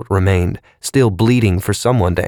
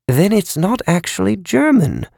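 mild skeptical remark; 11 semitones higher than usual. A narrator's reading. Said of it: "with a faint nod".

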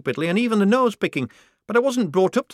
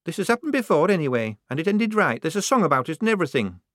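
much higher, louder defiant outburst; rounding on her; 11 semitones higher, 5 dB louder than usual. Acted. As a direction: refuse fiercely, near tears. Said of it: "rounding on her".

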